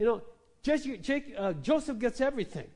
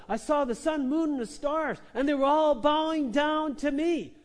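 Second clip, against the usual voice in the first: higher and louder, swelling proud boast; excited bragging; 7 semitones higher, 6 dB louder than usual. Acted. Joseph telling his family the stars bowed to him, loud bragging. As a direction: crow about the dream to the whole family.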